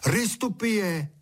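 drawn-out call to a bird. A narrator's reading. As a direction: call it out slow and high. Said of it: "koukal na ptáka u louže a volal".

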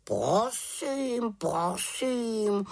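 high, drawn-out huffy raven voice; offended raven. A narrator's reading. Raven snubbed by the witch, offended. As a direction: take offence, stretching each word. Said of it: "urazil se Abraxas".

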